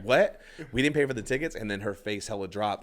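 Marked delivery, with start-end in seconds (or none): 0.0-1.6 higher questioning echo, rising at the end; mock disbelief, pitched up; incredulous wife. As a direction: repeat it as a stunned question. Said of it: "and, and she goes".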